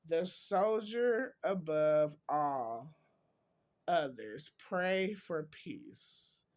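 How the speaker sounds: slow, emphatic reading, dropping away at the end; quote reading. Acted. Vlogger reads viewers a soldier's quote, slow emphatic reading. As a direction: declaim it slowly, weighting each phrase.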